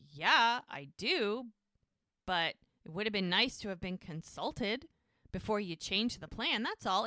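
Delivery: measured, with careful pauses; restrained, keeping annoyance in check; calm, holding back. Retold or imitated. Jack objects to the changed plan, calm and reserved. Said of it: "calm, cool, collected, taking deep breaths, reserved".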